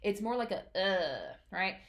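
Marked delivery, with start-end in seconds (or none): 0.8-1.3 uh said closed, not open; throat closed a little on uh; neutral vowel. Shown as a demonstration. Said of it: "a very, um, neutral, not open sound".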